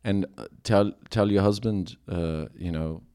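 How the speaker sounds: mock-solemn Liverpudlian apology; badly faked Scouse, playing disgraced; bad Scouse accent. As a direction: confess in a hammed-up Liverpool accent. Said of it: "Apologize to Katie Wright in your bad".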